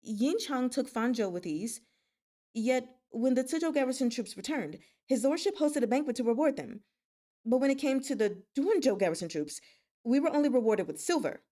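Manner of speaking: building from firm to loud, indignant; an aggrieved soldier raising his voice at his lord; rising voice. Acted. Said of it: "Tantaihu forced his rising voice back down".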